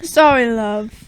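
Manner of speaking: put-on British accent. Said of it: "in British accents".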